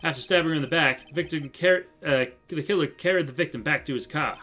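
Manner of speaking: lightly voiced, emphatic police detective; eager detective. Detective briefing the court on the crime, eagerly. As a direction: report the case briskly to the court. Plays detective giving testimony.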